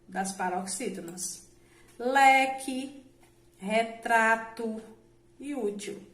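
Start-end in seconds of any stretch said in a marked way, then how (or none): 2.0-6.0 "Leque, retrato e útil" spaced out, leaning on LE, TRA and Ú; stress on penultimate syllables. Shown as a demonstration. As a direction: slowly stretch the TRA in "retrato", punch the LE in "Leque". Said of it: "a sílaba tônica é sempre a penúltima". (tonicidade na penúltima sílaba)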